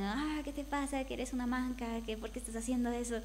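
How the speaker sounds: mock yell without real volume; half-hearted mock telling-off, quickening at the end; imitated scolding yell. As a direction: imitate teammates yelling, keeping it light. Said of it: "me gritan".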